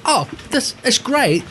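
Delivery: slow, drawn-out "Oh, this is great"; mock Chip line. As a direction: ham up the slow Chip drawl. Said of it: "dialogue in Wedding Crashers".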